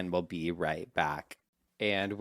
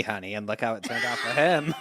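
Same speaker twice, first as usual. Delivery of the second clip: laughing. Real, not acted. Sassy joke about Segway guy.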